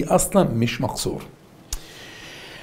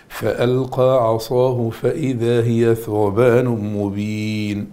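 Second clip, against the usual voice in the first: slow recitation; much slower than usual. Shown as a demonstration. Teacher reciting the verse slowly to the class.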